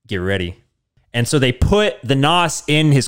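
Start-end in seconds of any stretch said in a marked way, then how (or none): 0.1-0.6 hammed-up hushed action-movie warning; Mark's voice. Mark warns Vin Diesel before the race, low hushed mock voice. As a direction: lower and softer, ominous movie mentor. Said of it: "And then Mark goes".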